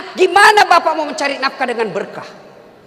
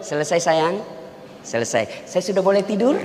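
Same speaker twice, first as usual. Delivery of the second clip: soft, coaxing husband asking to sleep; mock tender pleading; 9 semitones lower, 7 dB quieter than usual. Husband soothing his nagging wife, softly and playfully. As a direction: sweet-talk her gently, half joking.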